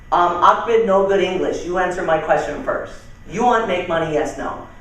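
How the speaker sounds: lightly imitated foreign-accented broken English; mock foreign accent, stubbornly simple. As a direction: insist in a halting foreign accent. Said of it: "as I do the accent".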